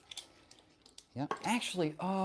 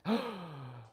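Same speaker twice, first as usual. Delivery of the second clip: gasp; 3 semitones higher, 7 dB quieter than usual. Real, not acted. Mock shock at viewer's membership.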